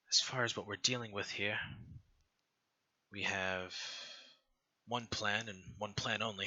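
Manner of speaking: muffled, as if through a scarf. Acted. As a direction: talk through a cloth over the mouth. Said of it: "she has this very, uh, muffled voice 'cause she has, like, the scarf over her mouth".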